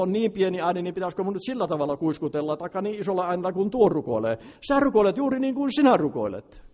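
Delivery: fervent preaching. Acted. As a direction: preach at full force, urging freedom. Preaches to the congregation.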